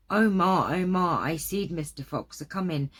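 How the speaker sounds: little rabbit hollering a warning; hollering child. Acted. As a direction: call to mother in alarm. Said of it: "come running and hollering".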